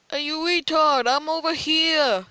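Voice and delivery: bait him from your hiding spot; mocking taunt. Real, not acted.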